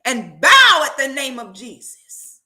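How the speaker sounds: slow, deliberate prayer rising to a loud finish; slow decree building to loud; slow fervent command. Retold or imitated. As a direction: command the clots slowly, then push it out. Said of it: "she said".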